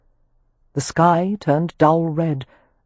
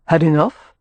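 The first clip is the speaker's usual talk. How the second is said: pleasantly; 4 dB louder than usual. Acted. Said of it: "he asked pleasantly".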